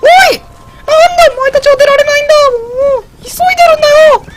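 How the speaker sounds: loud exasperated scolding; calling from far away. Real, not acted. Scolding cows that won't move. (苛立って大声で呼びかける)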